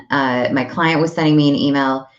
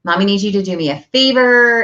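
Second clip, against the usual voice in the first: gentle mom voice; 7 semitones higher, 4 dB louder than usual. Retold or imitated. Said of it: "I'm talking quietly".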